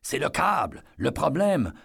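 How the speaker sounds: high, calling out over a crowd; desperate warning shouted up to the operators; urgent shout. Acted. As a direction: yell a warning up to the ride. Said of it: "noya ses cris".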